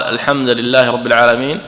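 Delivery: الحمد read "al-hamda" with a final a; fatha on the dal. Shown as a demonstration. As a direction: put an a-vowel on the dal of الحمد. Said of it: "كفتح دال الحمد". (الحمد بفتح الدال)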